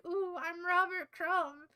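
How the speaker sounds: mock a little cartoonist showing off; Robert Crumb. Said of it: "where he's like".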